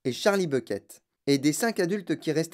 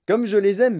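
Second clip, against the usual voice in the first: high, loud, fond outburst; adoring exclamation; 6 semitones higher, 7 dB louder than usual. A narrator's reading. Wonka gushing over his beloved cows, exclaiming. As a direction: gush it, pitched up.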